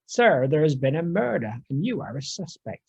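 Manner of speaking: a hint of an emphatic Southern gentleman accent. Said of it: "emphatically in Southern gentleman accent".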